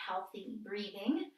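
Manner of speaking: ordinary talk, nothing marked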